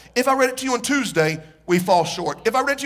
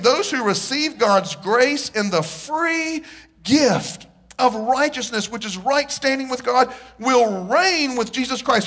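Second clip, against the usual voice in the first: scripture reading; 2 semitones higher, slower than usual. Real, not acted. Reading scripture slowly, emphatically.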